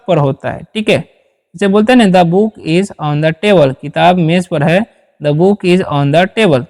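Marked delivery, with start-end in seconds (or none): 2.2-3.7 each word spaced out slowly for students; slow dictation. Shown as a demonstration. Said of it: "इस तरीके से". 5.2-6.7 each word spaced out slowly for students; slow dictation. Shown as a demonstration. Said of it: "इस तरीके से".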